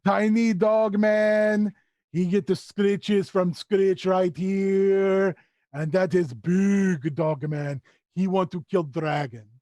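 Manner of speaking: very slow, stretched creature voice; Skitch, simple creature. Acted. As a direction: introduce friends in halting broken speech.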